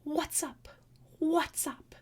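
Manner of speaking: high, breathy mock talking raven; raven imitation. Streamer quoting the talking raven video, mock bird voice. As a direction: lightly squawk it like a pet raven. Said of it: "he goes".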